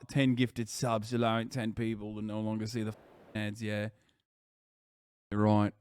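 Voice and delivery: put-on grumbling British bloke, English accent. Streamer reading the ad break to viewers, put-on English accent. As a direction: do a low-key cheeky Brit accent.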